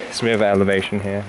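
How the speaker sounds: panting while walking uphill; breathless from the climb, quick words; out of breath. Real, not acted. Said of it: "that's why I'm panting".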